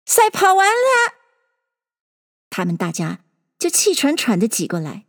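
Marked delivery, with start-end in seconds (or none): 0.0-1.1 high-pitched announcing cry; sudden call. A narrator's reading. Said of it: "就忽然叫道".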